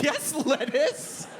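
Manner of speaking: slow, drawn-out stoned confirmation; dazed slow yes. Retold or imitated. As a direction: savor the word like it's profound. Stoned customer confirms order.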